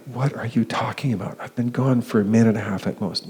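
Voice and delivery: baffled retort. Retold or imitated. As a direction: protest as if honestly puzzled by the accusation. Baffled reply in retold quarrel.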